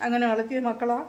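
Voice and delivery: real tears pressing into the words; tearful. Real, not acted. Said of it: "അമ്മ കരയാതെ".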